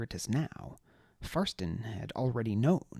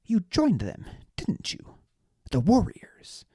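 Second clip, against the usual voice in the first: suspicious nobleman; 7 semitones higher, 6 dB louder than usual. A narrator's reading. Deliritus suspicious.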